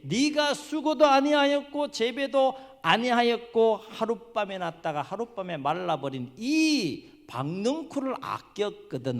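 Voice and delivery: slow, high, loud scripture declamation; God's solemn proclamation. Retold or imitated. God answers Jonah with concern for Nineveh, slow ringing proclamation. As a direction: ring out each phrase with long stresses. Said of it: "이렇게 말씀하세요".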